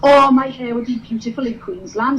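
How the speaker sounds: put-on sing-song Welsh valleys accent; chirpy Welsh valleys girl. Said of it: "I'm from the valleys".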